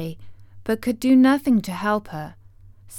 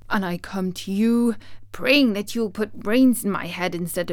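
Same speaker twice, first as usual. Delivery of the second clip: bravely; 3 dB louder than usual. Acted. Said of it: "he answered her bravely".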